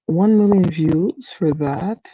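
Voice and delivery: incredulous. Retold or imitated. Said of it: "I was just like".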